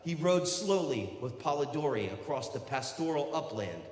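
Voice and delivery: projected, measured recital; declaimed book reading. Acted. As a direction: read it out grandly to a crowd. Reads aloud from a Byron biography.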